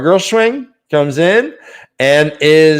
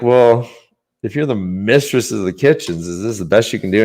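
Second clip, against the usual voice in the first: sarcastic; 5 semitones lower than usual. Retold or imitated.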